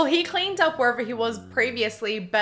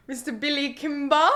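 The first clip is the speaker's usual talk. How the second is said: put-on Billy Kimber accent; 3 semitones higher than usual. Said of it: "let me try again".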